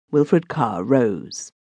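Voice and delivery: plain reading voice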